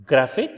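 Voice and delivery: GRAPH-ic with GRAPH punched; stressed GRAPH in graphic. Shown as a demonstration. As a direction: hit the start of graphic. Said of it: "shifts from first syllable to the second syllable".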